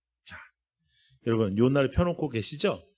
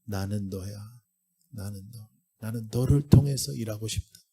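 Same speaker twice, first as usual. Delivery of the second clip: tender God's voice; 4 semitones lower than usual. Acted. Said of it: "하나님이 여러분들에게 일 대 일로".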